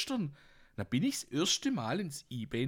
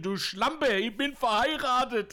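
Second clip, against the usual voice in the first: retold shout; 9 semitones higher, 5 dB louder than usual. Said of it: "hast geschrien".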